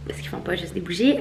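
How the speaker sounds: hushed, secretive whisper. Real, not acted. Whispering to viewers about the gift she was sent. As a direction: let it out in a breathy whisper like a secret. Showing gift from candle company.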